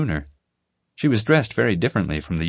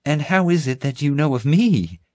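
southern drawl; 7 semitones higher, 3 dB louder than usual. A narrator's reading. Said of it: "Flora drawled".

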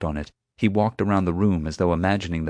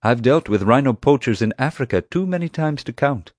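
higher, lightly insistent retort; lightly voiced man asserting his experience; countering Atmani; 7 semitones higher, 3 dB louder than usual. A narrator's reading. Atmani counters the chief with his experience, insistent. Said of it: "Atmani countered".

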